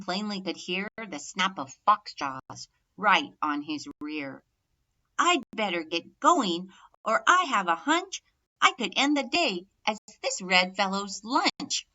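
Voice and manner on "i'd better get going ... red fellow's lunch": louder, breathless-sounding worry while running; young turkey fleeing the fox, loud and alarmed; panicked dash. Acted. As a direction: gasp it out as the jaws snap behind.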